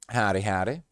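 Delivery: lightly put-on cowboy greeting; a quick goofy voice to greet a viewer; silly howdy voice. Greeting a new viewer in a lightly goofy cowboy voice. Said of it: "what kind of voice was that?".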